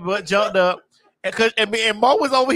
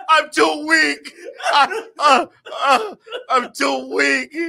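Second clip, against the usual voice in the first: slow, feeble Emperor whine; mock dying Sith lord; weak Palpatine; 2 semitones higher, much slower than usual. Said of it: "I'm over here like Palpatine".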